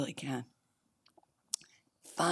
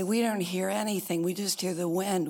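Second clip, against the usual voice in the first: quick, mildly insistent mock protest; dismissive denial; 2 semitones higher, faster than usual. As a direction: brush it off in a hurry. Monkeys dismiss what Horton hears.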